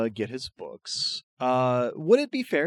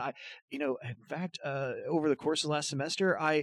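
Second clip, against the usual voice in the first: higher, quick, eager chatter; babbling student; 5 semitones higher, faster than usual. Acted. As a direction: ramble on like a nervous fan. GM voicing babbling Jorma.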